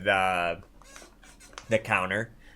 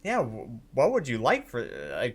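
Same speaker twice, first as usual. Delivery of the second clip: lightly voiced, higher singsong haggler; impressed blacksmith; 4 semitones higher than usual. Blacksmith asking the players their price, lightly voiced keen interest. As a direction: open a deal with swooping interest. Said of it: "she turns to her and says".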